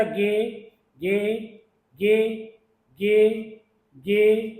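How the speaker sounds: repeating ge as a clear sound demo; teacher saying the sound ge. Shown as a demonstration. Teacher drilling the letter's sound for students, clear and deliberate. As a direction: say गे plainly, with a hard g and a short e. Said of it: "तो ये dark होता है".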